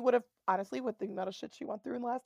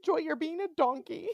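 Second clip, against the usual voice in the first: prim mock scold; 5 semitones higher, slower than usual. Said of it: "She would have probably been like".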